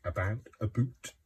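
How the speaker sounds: imitated Canadian "about", turning into "a boot"; playful Canadian-accent "a boot", lilting up. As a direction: mimic a Canadian vowel in "about". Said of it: "some Canadians say".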